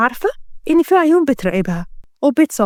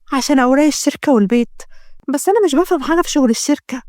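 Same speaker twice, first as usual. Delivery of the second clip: lightly voiced young woman. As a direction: lightly voice the girl asking for help. (صوت فتاة بخفة)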